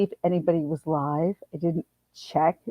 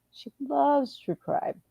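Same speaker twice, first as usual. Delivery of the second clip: slower and higher, stressing "loves"; emphatic repeat; 7 semitones higher, 6 dB quieter, slower than usual. Real, not acted. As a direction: lean on "loves" as you repeat it.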